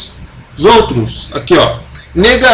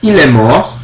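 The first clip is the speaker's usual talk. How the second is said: "Il est mort" como pergunta, subindo no final; entonação de pergunta. Shown as a demonstration. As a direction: ask "Il est mort" with a rise on "mort". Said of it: "fazendo com entonação". (entonação interrogativa, "mort" subindo)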